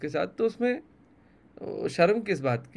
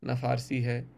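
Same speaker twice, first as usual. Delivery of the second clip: poem recitation; 2 semitones lower than usual. Acted. Poet reciting his poem to the interviewer, measured recital.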